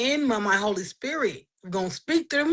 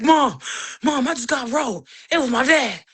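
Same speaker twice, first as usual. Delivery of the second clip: scared call to mom; 4 semitones higher than usual. Retold or imitated. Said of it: "And I was scared".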